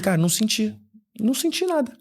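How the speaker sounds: high, squeaky mock disappointment; complaining to his wife after the service, mock whiny; mock dismay. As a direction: whine that nothing happened. Retold disappointed reply.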